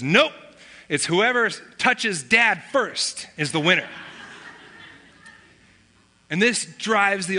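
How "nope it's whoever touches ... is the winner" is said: playful retold one-upping; mock contradiction. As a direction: pop the first word, then draw out the rule. Younger son overrules brother, teasing.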